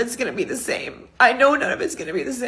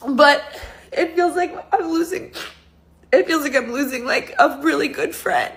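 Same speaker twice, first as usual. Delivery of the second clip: crying; 2 semitones higher than usual. Real, not acted. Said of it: "I can't believe I'm crying like this".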